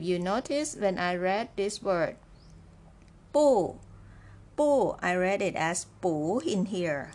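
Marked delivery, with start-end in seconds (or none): 3.3-3.8 "不" alone, falling sharply from high, louder; citation fourth tone. Shown as a demonstration. Teacher reads out the word on its own, emphatic falling "不". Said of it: "when 不 is followed by the fourth tone". 6.0-6.4 "补" said as bu with a rising tone; second tone. Shown as a demonstration. Teacher shows how the word is read here, rising tone on "补". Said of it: "it should be read as the second tone".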